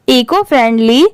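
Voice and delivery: "eco friendly" joined without a break; read as one word. Shown as a demonstration. Teacher modelling the joined term for learners, "eco friendly" run together. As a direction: say "eco friendly" together, not as separate words. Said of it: "इसे साथ में पढ़ा जाता है, separate separate नहीं".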